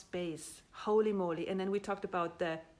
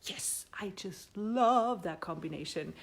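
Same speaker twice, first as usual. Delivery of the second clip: a delighted whisper about the couch. Real, not acted. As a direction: breathe it out like a secret. Admiring the pink couch.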